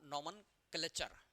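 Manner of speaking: नॉमनक्लेचर said slowly syllable by syllable, NOM-en-cla-ture; teacher's slow model of नॉमनक्लेचर; slow careful pronunciation. Shown as a demonstration. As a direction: spell out नॉमनक्लेचर slowly and clearly. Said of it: "ऐसा".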